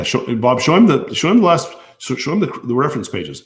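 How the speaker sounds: insistent high-pitched request to a helper; calling out instructions. Real, not acted. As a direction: call over to a helper, pitch jumping up. Calls instructions to Bob off mic.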